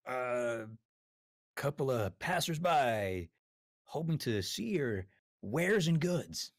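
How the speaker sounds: high, slow friendly merchant pitch; sweet-talking traveler. Acted. Character answers hidden voice.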